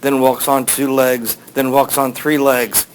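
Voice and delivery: slow, deliberate riddle delivery; recited slowly and evenly; posing a riddle. Retold or imitated. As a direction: measure out each phrase of the riddle. Sphinx poses its riddle.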